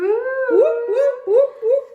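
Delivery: high, loud celebratory whoops; excited whooping. Real, not acted. Author celebrating her book going live on Amazon, excited whoops. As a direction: cheer it out like a victory chant.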